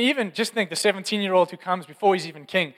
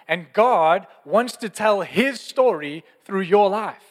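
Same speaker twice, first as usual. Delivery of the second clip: slow and deliberate; 3 dB louder, slower than usual. Acted. Slow emphatic line.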